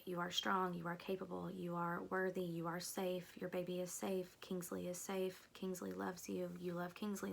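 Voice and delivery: gentle affirmations. Retold or imitated. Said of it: "he was reading them like".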